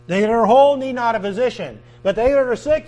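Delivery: loud emphatic scripture quote; preaching at full force. Acted. Preacher pressing the verse on the congregation, loud and emphatic.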